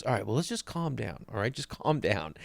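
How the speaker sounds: soft, soothing retold voice; imitating a hushed peacemaker; calming friend. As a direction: drop your volume to settle a pal down. Friend calming the angry golfer.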